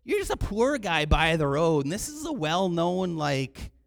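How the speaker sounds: loud, emphatic rebuke; indignant scolding. Acted. Crowd rebukes the blind beggar, indignant scolding. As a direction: put him in his place, leaning on words.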